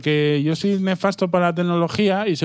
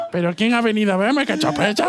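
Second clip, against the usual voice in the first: silly high clown voice; 5 semitones higher than usual. Pretend. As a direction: play a goofy clown. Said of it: "voz de payaso".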